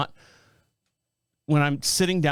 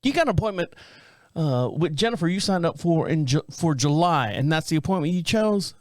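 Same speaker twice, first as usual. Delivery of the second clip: lightly voiced phone receptionist; a hint of a woman on the phone; imitated receptionist. Office caller confirming a July appointment, lightly imitated. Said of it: "I get a girl on the phone".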